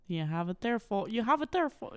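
attempted Midwestern accent slipping into Irish; muddled Irish-sounding take on a Midwestern accent; botched Midwestern accent. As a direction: try a Midwestern accent and miss toward Irish. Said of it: "I'm sorry, it's not Irish".

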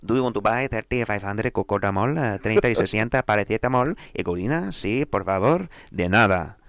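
lightly put-on Spanish accent; a hint of hammy Spanish accent; mock Spanish accent. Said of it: "I talk to you like this".

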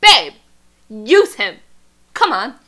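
high, loud hammed-up Bella; mock Bella. Friend voicing Bella refusing, then a friend egging her on, loud mock voice. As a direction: push it loud and pleading. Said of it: "she's like".

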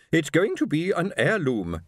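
high, slow, grand correction; imperious wife. A narrator's reading. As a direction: correct your husband haughtily. Wife corrects her sighing husband.

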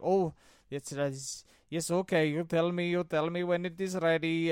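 loud insistent caller imitation; pushy caller voice. Caller repeats his demand.

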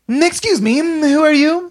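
high, prim clerk voice; high officious woman. Acted. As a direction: ask it like a polite official. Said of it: "She says".

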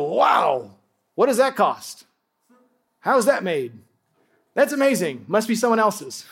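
lightly hammed-up astonished reaction; mock amazement. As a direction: play the impressed onlooker. Acts out awed onlookers at diamond.

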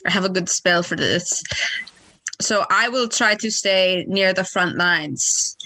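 lightly voiced smooth charmer; a hint of a seductive hero, unhurried; sexy character voice. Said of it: "if you couldn't tell by the extremely sexy voice".

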